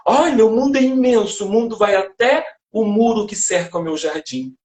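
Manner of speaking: gently ironic naive voice; ironic obtuse character. Retold or imitated. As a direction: play a limited character amazed by a tiny world. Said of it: "ironicamente, pros personagens que eram limitados, obtusos".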